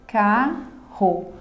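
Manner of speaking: "Carro" in two separate beats: car, ro; syllable by syllable. Shown as a demonstration. Teacher showing two breaths in a word, syllable by syllable. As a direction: break "Carro" with a pause between syllables. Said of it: "nós vamos ter também a pronúncia duas vezes".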